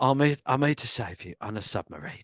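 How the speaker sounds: tentative Cockney actor impression; lightly voiced mock Cockney; Michael Caine. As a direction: have a rough go at a Cockney film star. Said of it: "I can't do Michael Caine".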